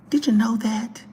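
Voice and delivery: a teasing hushed aside; whisper. Real, not acted. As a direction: lean in and whisper the question.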